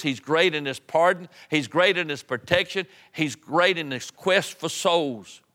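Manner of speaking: rhythmic, driving pulpit litany; fervent preaching. Real, not acted. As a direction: ring out each praise in a repeated cadence. Preaching a list of praises.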